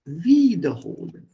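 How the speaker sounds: "Wiederholen" with a long, loud WIE at the front; stress on first syllable. Shown as a demonstration. German teacher showing the separable verb, first syllable stressed. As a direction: punch the first syllable of "Wiederholen", let the rest fall. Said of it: "this is a separable verb".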